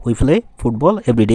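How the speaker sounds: football punched and falling, slow; weight on football; stress on football. Shown as a demonstration. Teacher drilling students with stress on football. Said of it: "এভাবে আমরা পড়বো".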